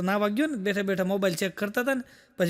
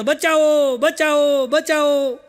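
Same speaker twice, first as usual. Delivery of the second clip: mock shout for help, higher and louder; cry for help; 4 semitones higher, 6 dB louder, much slower than usual. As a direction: yell help like a drowning man. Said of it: "ત્યારે ઈ બોલતો હતો". (ડૂબતા માણસની બૂમ)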